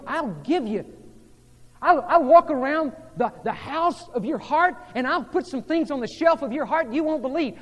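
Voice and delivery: preaching swell; rising promise. Acted. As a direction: build it up like a warm promise. Jesus promising, building up.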